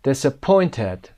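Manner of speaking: DISAPPOINTED with POINT as the peak; stress on POINT. Shown as a demonstration. Teacher shows the word's ups and downs, stress on POINT in DISAPPOINTED. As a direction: lean on the third syllable of DISAPPOINTED, POINT. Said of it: "قسمت پوینت".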